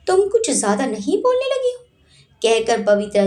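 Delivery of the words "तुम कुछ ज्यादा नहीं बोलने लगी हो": angry. A narrator's reading. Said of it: "Mugdha को गुस्सा आ गया".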